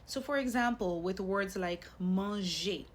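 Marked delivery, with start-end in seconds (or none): 2.0-2.8 manger ending in a clear "ay"; closed A sound. Shown as a demonstration. Teacher giving learners an acute accent example, closed A sound. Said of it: "once you hear that A sound".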